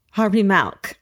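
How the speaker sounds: Milk said as mælk with a flat A; California A in Milk. Shown as a demonstration. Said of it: "the California A that we put into words".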